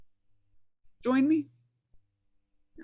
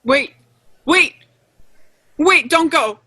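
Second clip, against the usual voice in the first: loud, higher pleading cries; desperate shouting plea; 5 semitones higher, 8 dB louder than usual. Acted. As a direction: shout after her, begging her to stay. Maria begs Eve not to leave.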